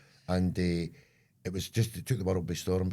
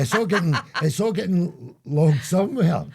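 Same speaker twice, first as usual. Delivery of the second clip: mock ominous; 10 semitones higher, 10 dB louder than usual. Joking about machines logging abuse.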